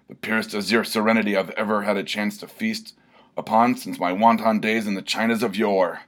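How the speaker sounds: lamenting barbarian. Acted. Barbarian gazes at the pool, awed lament. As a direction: marvel at it like a weary hero. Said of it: "lamented Filibuster".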